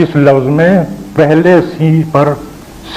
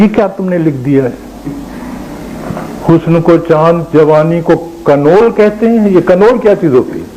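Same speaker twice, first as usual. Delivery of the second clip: put-on disdainful old poet; 4 semitones higher than usual. Poet mocking the word kanwal in the borrowed ghazal, lightly scornful. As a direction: sneer at the pupil's ghazal, mildly. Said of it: "بڑا برا سا منہ بنایا".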